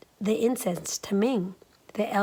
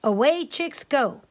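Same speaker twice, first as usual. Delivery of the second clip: higher, louder cheeky rice cake voice; higher cheeky cry of a living rice cake; 5 semitones higher, 5 dB louder, slower than usual. Acted. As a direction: sing out like a mischievous runaway cake. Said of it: "It cried".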